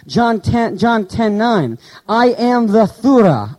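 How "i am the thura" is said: thura said slowly as a Greek term; Greek word read out. Shown as a demonstration. Preacher sounding out "thura" for the congregation, slowly. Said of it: "I am the door".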